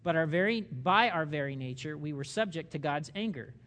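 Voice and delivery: slow, measured scripture reading. Real, not acted. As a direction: read it out slowly so listeners can follow. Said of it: "I'm reading this slowly".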